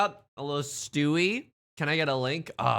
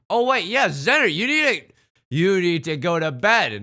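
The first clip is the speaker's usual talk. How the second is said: mock scolding; 3 semitones higher, 7 dB louder than usual. Mock scolding viewer to sleep.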